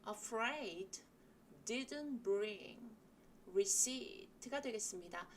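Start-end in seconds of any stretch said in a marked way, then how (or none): 0.1-2.9 "afraid" and "didn't bring" said with extra weight; stressed key words. Shown as a demonstration. Teacher listing stressed words for learners. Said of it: "세게 읽을 단어".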